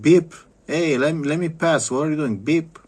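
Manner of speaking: high, loud imitation of a honk and a shout; mock honking driver. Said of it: "You honk him like".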